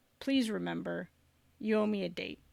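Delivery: soft, close whisper. Playing a character who gives a potion, leaning in: whispering in someone's ear. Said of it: "whisper in her ear".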